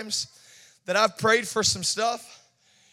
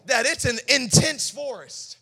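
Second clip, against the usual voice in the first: mocking taunt; 4 semitones higher, 3 dB louder, slower than usual. Sarcastic taunting reply.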